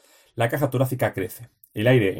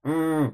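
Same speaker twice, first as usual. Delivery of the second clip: a short hummed mm, higher; nasal hum; 4 semitones higher than usual. Shown as a demonstration. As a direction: hum mm through the nose. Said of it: "aire y sonido por la nariz".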